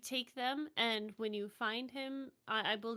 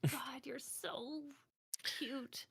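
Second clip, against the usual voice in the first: whispering; 9 dB quieter than usual. Acted. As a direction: gush it in a whisper. Whispered aside.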